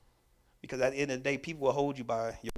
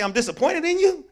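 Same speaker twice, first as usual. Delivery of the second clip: higher, louder, heavy disappointment; disappointed; 16 dB louder than usual. Retold or imitated. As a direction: land the disappointment hard and loud. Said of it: "But when somebody say".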